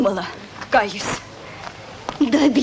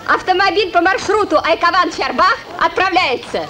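public announcement. Acted. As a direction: announce to the crowd. Calling passengers to board.

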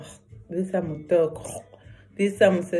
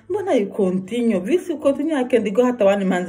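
higher, rising exasperated question; 5 semitones higher, 4 dB louder, faster than usual. Retold or imitated. Wife retelling her challenge to the husband, exasperated and rising. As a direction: push back hard, voice climbing.

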